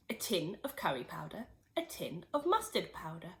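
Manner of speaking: soft unvoiced whisper; whispered list. A narrator's reading. Narrator lists what George pours in, whispered. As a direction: breathe the list like a secret.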